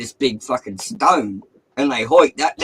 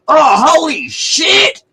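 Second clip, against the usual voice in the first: high, loud shout of shock; startled shout; 9 dB louder, slower than usual. Retold or imitated. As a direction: yell it out like you just got a fright. Mate yells out in shock.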